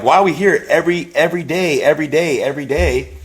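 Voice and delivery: put-on high, whiny child asking over and over; impatient little kid. Little boy at the hospital complaining, high whiny voice. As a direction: pester like a bored small boy. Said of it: "I'm, like, little".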